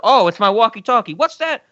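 lightly acted fake walkie-talkie call; Gigli. Kidnapper faking a call about the closed trip, lightly hammed-up dismay. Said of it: "holds it up to his ear, and he's like".

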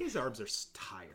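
very soft, breath-only delivery; hushed weariness. Pretend. On the hero hanging from the ship, weary whisper. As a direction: sink into a tired whisper.

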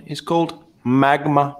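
lightly voiced suave movie villain; a hint of a smug evil mastermind; Doctor Evil voice. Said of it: "let me use my Doctor Evil voice for this one".

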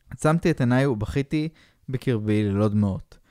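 ordinary delivery

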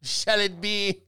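mock German, slow and drawn out; hammy fake German voice; fake German accent. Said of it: "That's not real German".

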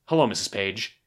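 solemn and restrained; solemn, reverent. Retold or imitated. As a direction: imitate a grave, respectful hello. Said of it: "very solemn, kind of reverent way".

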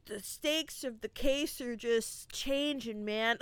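lightly imitated laid-back, slow talk; the dude's drawl. The dude explaining the case to Maud, lightly imitated slow drawl. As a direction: draw it out a little like a slacker. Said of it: "the way he just talks".

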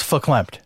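verklempt said with a light New York accent, fer-KLEMPT; correcting a friend, verklempt in a light New York accent; verklempt pronunciation. Shown as a demonstration. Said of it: "pronounced verklempt, Dave, 'cause it's supposed to be like a New York accent".

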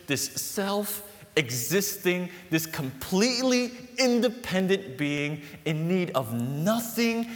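high, loud and very slow proclamation; booming, drawn-out divine pronouncement; God's grand voice. Acted. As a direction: declaim each word like a mighty being. Preacher voicing God's grand self-description.

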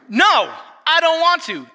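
put-on high, slow, sulky child's refusal; defiant daughter. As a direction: whine it back like a stubborn kid.

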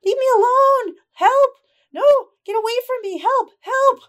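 high, loud cries for help; young boy's high-pitched distant yell; small voice yelling. Acted. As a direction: yell desperately like a frightened youngster. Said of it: "a small voice yelling in the distance".

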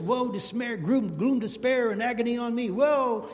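hammed-up woe-is-me lament; mock gloomy moaning. Preacher mocking the self-pitying believer, hammed-up moan. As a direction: moan it like a sulking Christian. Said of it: "walk around like this".

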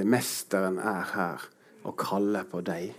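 hushed tender quote. Shown as a demonstration. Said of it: "bare elsker de ordene".

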